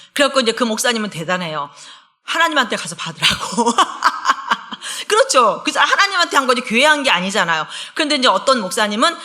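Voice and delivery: ordinary talk, nothing marked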